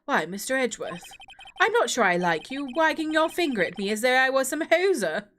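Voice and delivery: put-on a light posh English accent for the judge; stern judge, lightly posh English. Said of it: "keep him sounding posh English".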